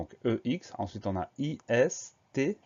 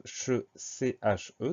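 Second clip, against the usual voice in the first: syllable spelled out; slower than usual. Shown as a demonstration. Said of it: "Première syllabe".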